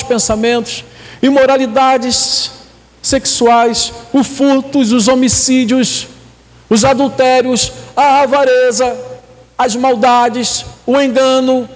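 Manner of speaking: steady list, each item set apart; scripture reading. Acted. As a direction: read out the list of sins item by item, evenly.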